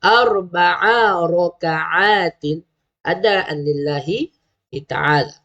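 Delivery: drawn-out, chanted Arabic intention; slow niat recitation. Shown as a demonstration. Teacher reciting the niat to parents, slow and chanted. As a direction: recite each word slowly for parents to copy. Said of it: "Zuhur, empat rakaat".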